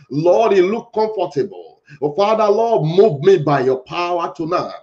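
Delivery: insistent petitions in chanted repetition; rhythmic, emphatic congregational prayer; fervent prayer. Acted. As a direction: plead with God phrase after phrase. Leads repeated prayer petitions.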